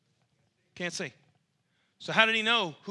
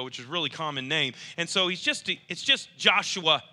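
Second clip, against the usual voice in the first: dismissive crowd; 3 semitones lower than usual. Acted. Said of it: "what they were saying to this blind man is".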